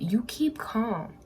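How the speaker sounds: slow, deliberate, each word set down; slow and calm. Real, not acted. Reader telling viewers they keep calm, slow and deliberate. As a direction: let the words settle slowly. Tarot reader stressing calmness.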